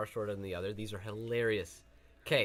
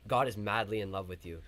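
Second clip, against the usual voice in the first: retold in a suddenly serious, lower tone; really serious; 4 semitones lower than usual. Stranger on campus suddenly confiding his message, serious. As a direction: drop the pitch and quote it earnestly. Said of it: "suddenly got, like, really serious".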